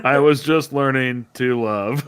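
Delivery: slow, hammed-up dying line; slow joking lament; mock tragic farewell. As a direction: draw it out like a melodramatic last line. Plays along with mock farewell.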